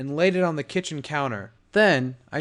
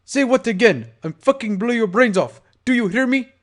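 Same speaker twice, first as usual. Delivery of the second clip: angry; 8 semitones higher, 5 dB louder than usual. Acted. Gangster threatens with gun.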